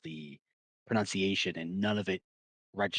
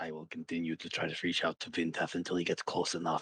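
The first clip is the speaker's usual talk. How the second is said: put-on character whisper, lower pitch; 2 semitones lower than usual. Narrating a voice whispering into a player's ear, Zoth whispering. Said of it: "you hear Zoth kind of whispering to you".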